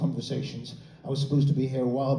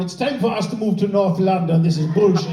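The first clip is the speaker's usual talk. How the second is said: put-on Jamaican accent; 3 semitones higher, 6 dB louder than usual. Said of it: "people in Jamaica going".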